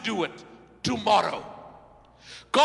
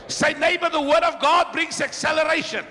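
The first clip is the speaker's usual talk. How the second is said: tag; 3 semitones higher, 4 dB louder, faster than usual. Acted. Preacher rallies the congregation.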